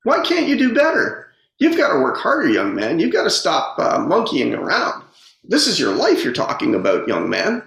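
high, exasperated scolding mother voice; scolding mom. Retold or imitated. Mom scolds her son about his report card, voice pitched high and exasperated. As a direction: mimic mom nagging over a C report card. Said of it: "my mom's going".

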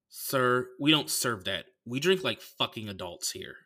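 lightly voiced condescending bartender; understated disdain, measured refusal; snooty bartender voice. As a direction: imitate a haughty server refusing an order. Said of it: "could've just did the voice".

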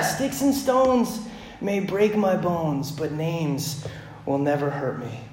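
put-on slow, savoring recital of an old saying; lingering, fond slow recital; savoring the rhyme. Shown as a demonstration. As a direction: relish each word like a comforting mantra. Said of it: "man, they sound so good".

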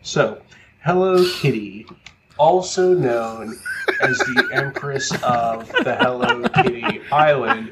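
slow, laughing mock Canadian accent; lightly imitated official Canadian accent. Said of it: "like, Canadian accent".

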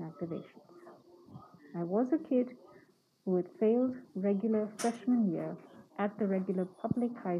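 muffled speech behind a mask; talking while wearing a face mask; through a face mask. Real, not acted. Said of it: "am using a mask right now as I record this podcast".

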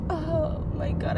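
soft, drawn-out little cry; mock somber cry. Retelling what the crying wasn't, mock somber cry. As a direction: whimper it softly and slowly, mock-tearful. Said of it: "like, a somber cry".

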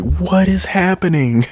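high-pitched incredulous squeal; mock-baffled high voice; baffled disbelief. Acts out own baffled reaction.

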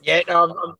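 thin tinny voice with no bass; speaking close into a phone mic; tinny phone sound. Real, not acted. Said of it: "Hopefully it's not too tinny".

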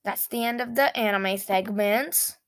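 a crack breaking through the voice. Real, not acted. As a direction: voice cracks mid-sentence. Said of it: "Oh, my voice just cracked".

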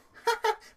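high sitcom cackle; fifties cackle laugh. Retold or imitated. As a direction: imitate her sitcom cackle. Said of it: "her little nineteen fifties cackle laugh".

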